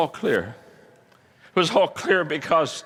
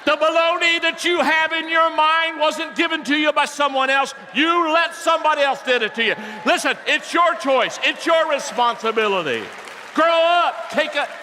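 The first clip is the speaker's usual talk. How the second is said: forceful preaching; 9 semitones higher than usual. Real, not acted. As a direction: drive the point home to the congregation. Preacher exhorts congregation, raised.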